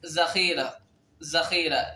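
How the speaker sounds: ذخيرة with ذ said as z, "zakheera"; Urdu pronunciation. Shown as a demonstration. Teacher models Urdu letters for Arabic speakers, ذخيرة with a z. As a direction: say ذخيرة starting on a plain z sound. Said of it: "بل ينطق مثل زي".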